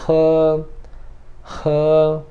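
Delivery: he high, long and level; first-tone he. Shown as a demonstration. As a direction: hold he on one high, steady pitch. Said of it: "Primeiro tom também".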